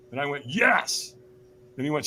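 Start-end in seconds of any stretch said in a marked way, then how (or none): 0.5-1.2 half-committed yes. Retold or imitated. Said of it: "I was not in a peak state".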